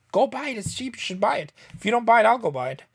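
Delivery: high, pushy hard sell; pushy seller. Retold or imitated. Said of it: "tell 'em, like".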